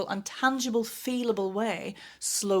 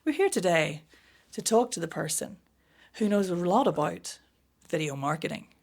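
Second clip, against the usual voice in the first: choppy podcast chunks. Retold or imitated. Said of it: "Nobody talks like that in real life".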